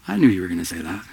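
a hint of God teasing, fast and knowing. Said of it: "And God's like".

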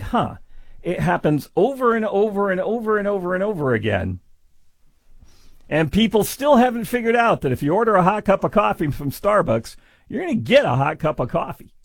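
high, mocking disbelief at the obvious; sarcastic inner voice. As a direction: roll your eyes and spell it out. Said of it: "I hear that and I think".

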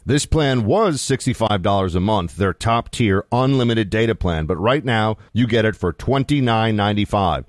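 measured radio sponsor read. Acted. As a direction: sell the offer like a radio host. Reads a sponsor ad.

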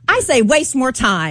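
mock-earnest sarcastic advice, drawn out. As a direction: pretend to recommend it, sarcastically.

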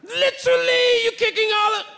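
very high, strained mock-British voice; hammed-up British guard complaint; bad British accent. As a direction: draw it out in badly faked British. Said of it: "I don't do a good British accent".

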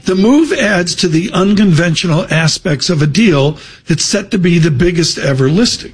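put-on reading it in a Welsh accent. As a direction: put on a Welsh lilt for the news copy. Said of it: "I gotta say it with a Welsh accent".

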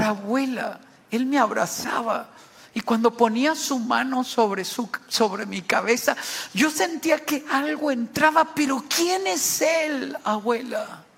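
a hint of a wondering little boy, pitch climbing midway; lightly voiced child. Child telling grandmother who hugged him, lightly voiced. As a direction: tell it like a child reporting to grandmother, rising then slowing on the question. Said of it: "Se imagina el diálogo de este niño".

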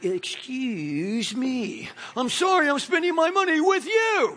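indignant customer. Retold or imitated. Mocking a rude waiter complaint.

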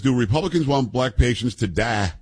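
quoting the congresswoman, stretching die into a southern tah; mock southern cadence on die. Host mocks her southern cadence on the word die. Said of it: "some southern strange ebonics cadence on the word die".

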